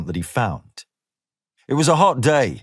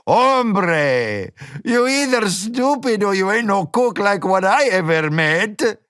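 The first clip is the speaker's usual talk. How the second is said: raised, lightly voiced mocking cook boss; gruff diner boss; 9 semitones higher, slower than usual. A narrator's reading. Gomez teasing the applicant, lightly mocking. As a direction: scoff at the newcomer.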